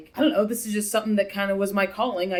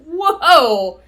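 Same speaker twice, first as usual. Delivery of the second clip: loud, higher-pitched burst of shock; stunned whoa; 8 semitones higher, 10 dB louder than usual. Retold or imitated. Viewer reacting to the shocking Fleabag line, stunned. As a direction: let out a big, floored whoa.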